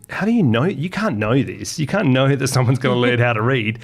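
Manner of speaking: put-on insistent child, voice jumping up on "How do you know"; adamant. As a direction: press it stubbornly like a doubting kid. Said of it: "adamant with my mum".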